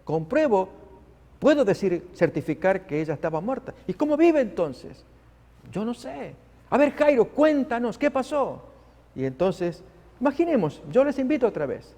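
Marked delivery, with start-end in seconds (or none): 0.1-5.0 lightly voiced puzzled doctor. The doctor defending his diagnosis to the relatives, puzzled. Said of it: "Y es el médico que dice". 5.7-8.6 higher, pressing questions; questioning relatives. Acted. Relatives pressing Jairo to explain, insistent.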